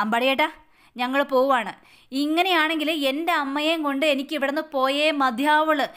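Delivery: mildly angry, put your foot down; angrily. Acted. Vineeth telling Ambadi he is leaving, mildly angry. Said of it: "ദേഷ്യപ്പെട്ട് സംസാരിച്ച്".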